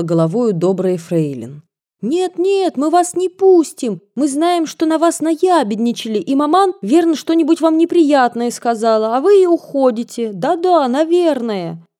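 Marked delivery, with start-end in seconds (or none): 2.0-11.9 put-on high, urgent girlish pleading; excited pleading. A narrator's reading. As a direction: beg her not to leave. Girls begging her to stay.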